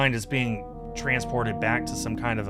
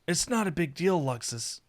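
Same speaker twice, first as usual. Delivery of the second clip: inner voice; 6 semitones higher, 3 dB quieter than usual. Acted. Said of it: "inner voice, I guess".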